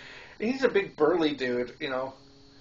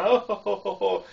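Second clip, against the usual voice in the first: jolly mock ho ho ho; creepy Santa laugh; 6 semitones higher than usual. Imitating a creepy animatronic Santa's ho ho ho. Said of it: "he's just laughing, going".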